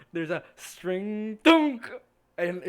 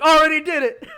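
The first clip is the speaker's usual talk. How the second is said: loud higher laughing retort; smug retort; 9 semitones higher, 13 dB louder than usual. Acted. Radagast mocking the other caster, loud smug reply. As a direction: throw it back smugly. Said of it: "He's like".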